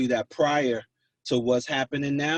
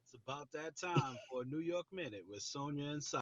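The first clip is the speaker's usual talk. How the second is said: recorded radio ident read; punchy station ident voice; announcer read of a jingle; 17 dB quieter than usual. Acted. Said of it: "guess whose voice that is".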